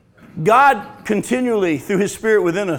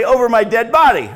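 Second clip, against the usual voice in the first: indignant refusal; 2 semitones higher, 6 dB louder than usual. Pretend. Imagined parent refusing outright.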